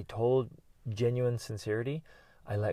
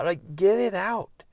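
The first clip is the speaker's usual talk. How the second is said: high, loud, drawn-out push; rousing urging; 10 semitones higher, 8 dB louder, slower than usual. Real, not acted. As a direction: push them to release it, slow and forceful. Urging after Viking yell.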